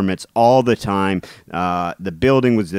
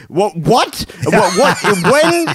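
high, startled urgent operator; suddenly jolted into action; alarmed; 9 semitones higher than usual. Retold or imitated. Retold alarmed complaint operator.

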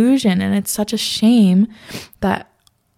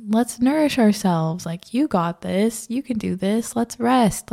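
gentle encouragement; 2 semitones higher than usual. Retold or imitated. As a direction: coax yourself kindly, slowly. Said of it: "Instead of just being like".

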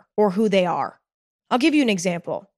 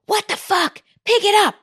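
acted grandma scream; 12 semitones higher than usual. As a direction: burst out shrill and high like a grandma losing it. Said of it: "she starts screaming at you".

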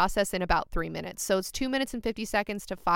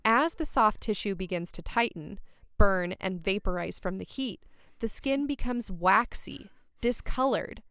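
sexy voice. Pretend. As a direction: read it like a seductive bedtime story. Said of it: "reading that, like, in a sexy voice".

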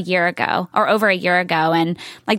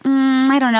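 mock doubtful girls; 5 semitones higher than usual. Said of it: "the girls were always like".

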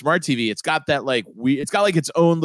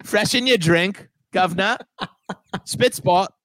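hammed-up cockney, higher and slow; mock cockney, higher and slower; cockney accent; 5 semitones higher than usual. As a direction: play a jolly stage-cockney waiter. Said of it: "you just go real cockney".

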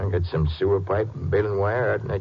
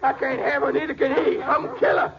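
crazed raving; 13 semitones higher than usual. Acted. Cornered killer raving at arrest.

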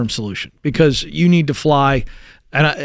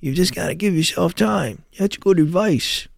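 Adam Sandler impression; 2 semitones higher, 5 dB quieter than usual. Shown as a demonstration. Host showing his co-host the comedian's voice, soft nasal impression. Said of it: "you gotta get a little nasally".

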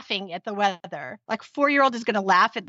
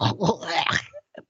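throat swab gag; 5 semitones lower than usual. Real, not acted. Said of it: "That's me gagging".

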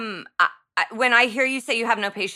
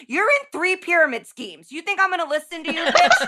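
scornful retort; 4 semitones higher than usual. Retold or imitated. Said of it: "I'm like".

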